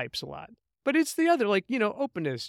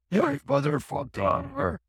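slow, drawn-out booming curse, pitched much higher; 10 semitones higher, 3 dB louder, much slower than usual. Retold or imitated. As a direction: let the curse roar out slowly at a cutting-off truck. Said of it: "this booming voice came out".

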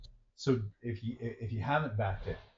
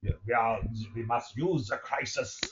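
Trudeau impression; 2 semitones higher than usual. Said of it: "his voice drives you nuts".

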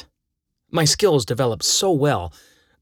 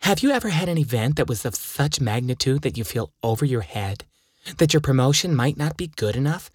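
1 saleswoman voice; 2 semitones higher than usual. Acted. Voicing the ad saleswoman.

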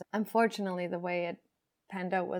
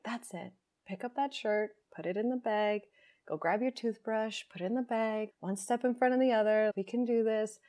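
a hint of a steady, soothing coach; calm soothing voice; 3 semitones higher than usual. Calm inner self guiding her step by step, lightly soothing. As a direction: gently talk yourself through packing. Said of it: "this really calm, centered, soothing voice".

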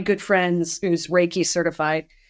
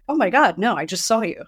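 quick mock-startled reassurance that settles back down; surprised denial; 2 semitones higher than usual. Answering a friend's worried text, surprised denial.

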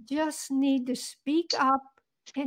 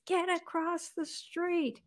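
slow, softer gruff order; 5 semitones higher, 6 dB quieter, slower than usual. Retold or imitated. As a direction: growl the order out slowly. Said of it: "I hear in a real gruff voice".

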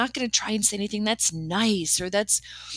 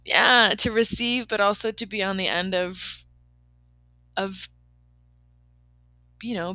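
tearful. Real, not acted. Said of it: "Oh, now I'm crying".

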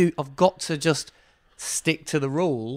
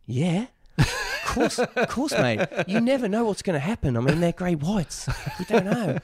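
playing the laid-back expert, mate; half-hearted Aussie accent; imitated Australian accent; 5 semitones higher than usual. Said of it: "He's not Belgian, by the way".

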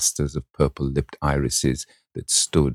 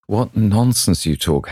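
higher, slow, fond protest; a lightly higher young voice, mock protest; young Dorian crying out; 6 semitones higher, 3 dB louder, slower than usual. A narrator's reading. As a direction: brush off his friend's nonsense with a laugh in the voice. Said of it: "cried the lad".

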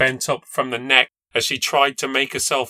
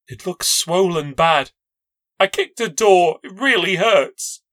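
put-on childlike pleading; 5 semitones higher, 4 dB louder than usual. A narrator's reading. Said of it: "like a child pleading with my mum".

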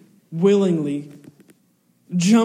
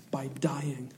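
hushed whisper, much softer; 4 semitones lower, 11 dB quieter than usual. Real, not acted. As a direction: breathe it as a whisper. Whispered climax.

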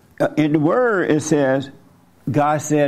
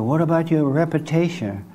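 devil's voice; 3 semitones higher than usual. Retold or imitated. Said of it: "That's the devil talking to you".

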